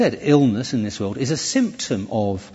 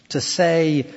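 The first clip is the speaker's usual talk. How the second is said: raised pitch on "say"; stress on SAY; 4 semitones higher than usual. Shown as a demonstration. Preacher showing say means claim, heavy stress on "say". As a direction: lean firmly on the word "say". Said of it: "by emphasizing the word say".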